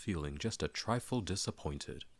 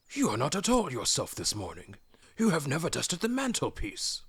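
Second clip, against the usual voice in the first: higher, louder, theatrical scolding; Gandalf teasing; 9 semitones higher, 4 dB louder than usual. Acted. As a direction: wag a finger with your voice. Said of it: "said Gandalf".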